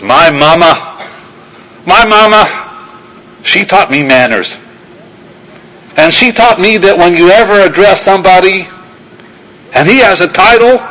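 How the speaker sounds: hint of a polite Virginia trooper drawl; lightly imitated Southern drawl. State trooper explains his mama's manners, light Southern drawl. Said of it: "in a Virginia Southern drawl".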